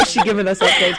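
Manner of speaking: talking through laughter; giggling while speaking; laughing. Real, not acted. Laughing at friend's update.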